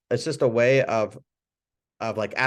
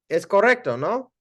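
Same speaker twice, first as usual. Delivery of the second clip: higher, rising check with the patient; checking question; 9 semitones higher, 4 dB louder than usual. Shown as a demonstration. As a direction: ask gently if it's right. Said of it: "You could say".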